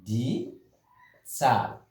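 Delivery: die Zahl, Zahl said with a ts sound, tsahl; German pronunciation. Shown as a demonstration. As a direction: slowly say die Zahl, with a pause before Zahl. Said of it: "You say".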